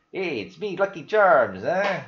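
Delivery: hammed-up Irish cereal mascot greeting; bad Irish accent. Vlogger jokingly greets viewers as the cereal mascot, badly faked Irish accent. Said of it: "cannot fake an Irish accent".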